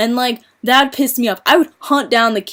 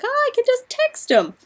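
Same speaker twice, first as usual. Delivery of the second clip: lazy texter mock. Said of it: "'cause they're like".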